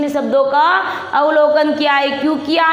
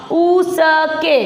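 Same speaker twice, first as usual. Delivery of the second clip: उसके stretched slowly as u-sa-ke; syllable-by-syllable reading; much slower than usual. Shown as a demonstration. Teacher reads along with pupils, उसके sounded out slowly. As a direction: break उसके into slow separate syllables. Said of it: "पढ़ो इसको".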